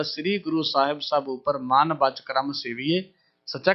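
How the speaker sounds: slow, measured verse chanting; gently chanted sacred verse; scripture recitation. Acted. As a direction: intone the hymn lines devotionally.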